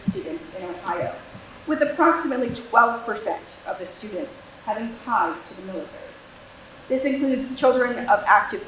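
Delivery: prepared address, each phrase starting firmer, then tapering; formal speech. Real, not acted. School liaison addressing the school board on military children, formal speech. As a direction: deliver a prepared statement to a board.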